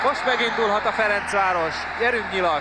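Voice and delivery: steady match commentary building up; live play-by-play. Real, not acted. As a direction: call the attack as it starts.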